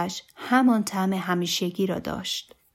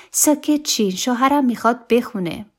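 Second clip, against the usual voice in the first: higher, louder announcement; calling for silence; 4 semitones higher, 5 dB louder than usual. A narrator's reading. Wife hushing guests before her husband sings, calling out. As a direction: call the room to order.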